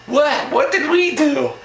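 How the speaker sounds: high, loud incredulous protest; mock bewildered. Protesters standing there facing the threat, mock bewildered. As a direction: plead innocence in an exaggerated high voice.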